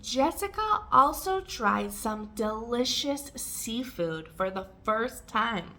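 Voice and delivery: careful, spaced-out model reading; measured, for learners to repeat. Shown as a demonstration. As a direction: give each word room. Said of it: "read it more slowly and take pauses".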